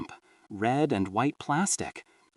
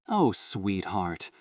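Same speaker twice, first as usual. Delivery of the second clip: maternal pity; 3 semitones lower, slower than usual. Acted. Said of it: "filled with that bottomless maternal pity".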